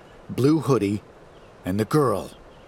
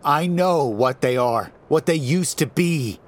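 Bryce's voice; 7 semitones higher, 4 dB louder than usual. A narrator's reading. Bryce arguing tensely.

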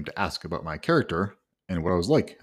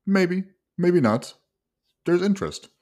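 much higher, teasing imitation of the agent's evasive answer; mock agent; 11 semitones higher, 4 dB louder than usual. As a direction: squeak it out like a slippery agent dodging the question. Mocking agent's evasive reply.

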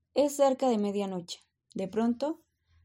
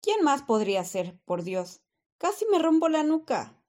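grim reaper voice; 4 semitones higher, 3 dB louder than usual. Acted. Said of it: "yo haré la voz de la muerte".

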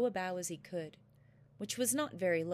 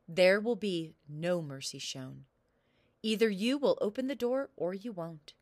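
booming warrior king; 5 dB louder than usual. Acted. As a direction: lay down the law like a ruthless king. King refuses mercy.

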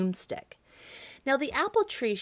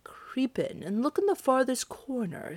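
whispered, sly invitation; 5 semitones higher than usual. Acted. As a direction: lure the witch into the trap in a hush. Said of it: "said the baker slyly".

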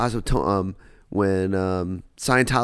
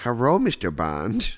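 mock British accent; slower than usual. Repeats Bond girl line mockingly.

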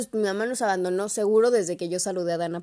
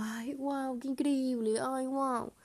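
mock awe; 6 semitones higher, 4 dB quieter, much slower than usual. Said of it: "estamos como".

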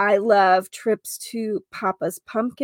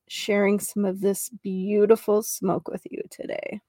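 airy breathy mystical healer. Acted. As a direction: ease them into the smoke gently. Leads smudge cleansing.

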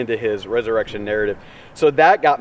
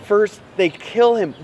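Mary's anguished thought; 4 semitones higher, 3 dB louder than usual. Retold or imitated. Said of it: "she's gotta be thinking".

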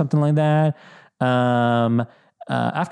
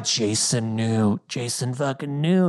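ominous realization; slower than usual. Retold or imitated. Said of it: "I'm like".

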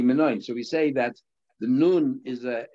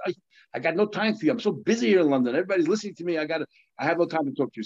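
higher, hurried, too busy to stop; harried brush-off; 5 semitones higher, faster than usual. Retold or imitated. Yetzer Hara waving off the rabbi in London, harried. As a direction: brush them off in a higher, rushed voice.

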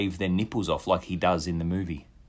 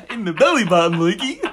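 high squealing laugh; 12 semitones higher, 6 dB louder than usual. Real, not acted. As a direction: squeal through the words.

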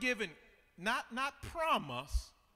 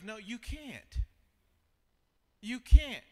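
no, then a loud emphatic repeat; preacher's sharp correction; firm rebuttal; 2 semitones higher, 9 dB louder than usual. Real, not acted. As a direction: shut the idea down hard. Preacher rebuts, second louder.

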